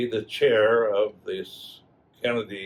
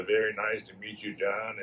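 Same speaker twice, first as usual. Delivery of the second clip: put-on a light, softer Kennedy-style Boston accent; 6 dB quieter than usual. Retelling how Kennedy greeted him, in a mild Boston accent. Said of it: "in that Boston accent".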